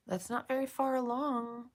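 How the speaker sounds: whispered, barely voiced worry; whispered aside. Real, not acted. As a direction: whisper it so she won't hear. Worried aside to viewer.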